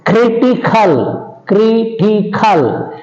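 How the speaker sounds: "critical" slowly, syllable by syllable, stressing CRI; stress on third-last syllable. Shown as a demonstration. Teacher illustrating seventh rule, "critical" slowly stressed on CRI. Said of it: "on the antepenultimate syllable from the end".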